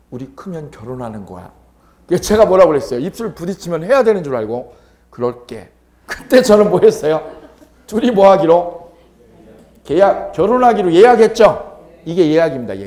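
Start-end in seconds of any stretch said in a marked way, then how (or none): 0.1-1.5 whispered, soft, much quieter and lower. Retelling what a kid whispered in the speaker's ear, retelling a whisper. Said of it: "걔가 귓속말로 그러는 거예요".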